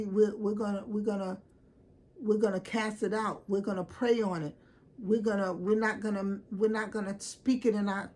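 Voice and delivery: what a real friend would say, mock church fervor; preachy supportive friend. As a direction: rebuke it like a prayer warrior. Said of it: "a friend would have said".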